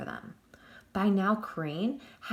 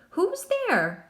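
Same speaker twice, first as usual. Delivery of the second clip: whiny, much higher call into the dark; 11 semitones higher, 4 dB louder than usual. A narrator's reading. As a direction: call out like a scared whiny deputy. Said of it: "whiny, high-pitched voice".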